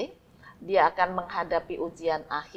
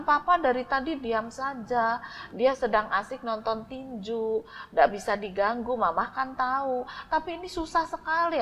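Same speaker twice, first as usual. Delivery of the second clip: put-on whiny child; 4 semitones higher than usual. Child complaining to mother.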